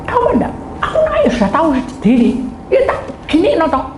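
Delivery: high, hurried mock crying complaint; hammed-up upset sister, pitched high; imitated tearful protest. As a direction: protest through acted tears. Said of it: "Sambil nangis".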